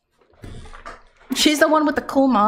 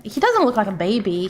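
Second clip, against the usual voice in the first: odd put-on voice. Real, not acted. Streamer answering chat about a baby face, odd put-on voice. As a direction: slip briefly into a silly voice. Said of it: "did I make that voice".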